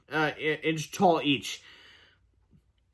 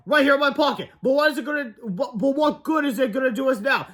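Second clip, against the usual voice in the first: high, louder, panicky character; acted alarm in a raised pitch; frantic cry; 8 semitones higher, 3 dB louder than usual. A narrator's reading. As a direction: blurt it out mid-fall. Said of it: "screamed Cheeseball".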